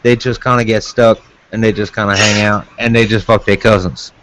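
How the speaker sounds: put-on Louisiana Cajun accent, starting high. Shown as a demonstration. Explaining where Acadians settled, in a demonstrated Cajun accent. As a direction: slip into thick Cajun talk. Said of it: "with the fucking Cajun accent".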